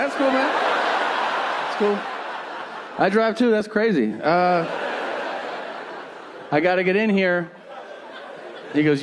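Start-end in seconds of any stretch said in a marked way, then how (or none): 0.0-7.5 high, strained fake-friendly voice; awkward polite brush-off. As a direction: force friendliness to escape the chat. Nervous polite brush-off of guard.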